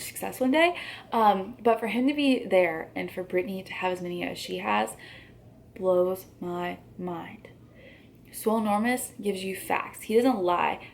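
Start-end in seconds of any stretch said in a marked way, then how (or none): 5.7-7.5 slow breathy whisper. Real, not acted. Exasperated aside to viewers.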